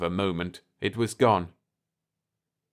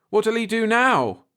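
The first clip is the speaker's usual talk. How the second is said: higher, sharp frightened cry; afraid cry; 13 semitones higher, 5 dB louder than usual. A narrator's reading. Jeff on the earphones as the ship rises, afraid. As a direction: cry out in fear. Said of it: "starkly afraid".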